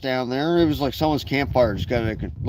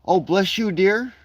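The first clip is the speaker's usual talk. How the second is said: sweet grandma voice; 5 semitones higher than usual. Retold or imitated. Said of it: "she'll bake you a cake and say".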